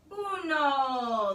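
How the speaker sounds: loud, high count; shouted. Acted. The dog shouting the count to pull, loud. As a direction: bark out the first count. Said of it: "as the doggy shouted".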